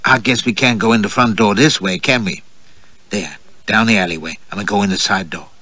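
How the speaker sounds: lightly voiced flirtatious American lady, teasing; a hint of a playful American belle; coquettish American woman. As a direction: play her as a coy, teasing flirt.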